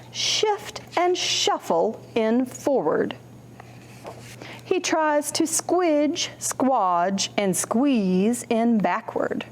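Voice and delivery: slow, gentle storybook read; reading to children. Acted. Librarian reads a picture book to children, slow and gentle.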